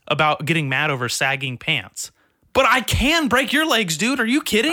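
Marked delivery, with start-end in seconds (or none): 2.5-4.7 much higher, louder incredulous rant; heated rant. Real, not acted. Comic rants about the heckler, higher and louder. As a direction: rant at him, half-laughing.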